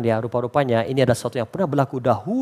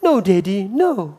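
put-on whining little girl; 5 semitones higher, much slower than usual. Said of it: "you want discipline?".

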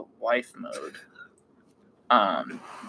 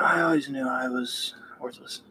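whispered; 6 dB quieter than usual. Pretend. Mock self-pity after doing it wrong.

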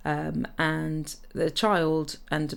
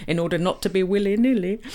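laughing; 4 semitones higher, 4 dB louder than usual. Real, not acted. Laughs at own euphemism.

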